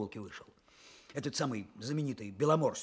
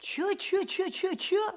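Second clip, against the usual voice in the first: teasing; slower than usual. Real, not acted. Teasing the old man.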